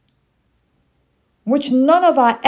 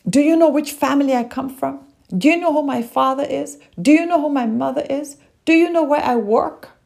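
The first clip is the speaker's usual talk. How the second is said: higher, fast, arrogant bragging; drunken posh sneer; 3 semitones higher than usual. Retold or imitated. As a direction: brag like an entitled snob. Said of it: "you hear people say things like".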